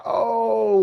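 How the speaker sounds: imitated labor moan. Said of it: "like, super loud from the contractions".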